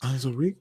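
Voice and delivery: "Onswo Re-" tried softly and low, cut off; quiet, unfinished stab at "Onswo Re-"; sounding it out. Real, not acted. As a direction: test "Onswo Re-" under your breath. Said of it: "I gotta think how I heard him say his name".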